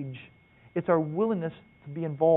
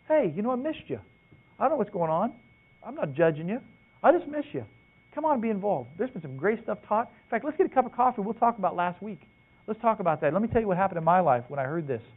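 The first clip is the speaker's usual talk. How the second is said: higher, friendly voice calling a missed friend; friendly phone call; 4 semitones higher than usual. Retold or imitated. Man calling a friend who stopped coming, lightly voiced and friendly. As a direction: sound like you miss him and mean it.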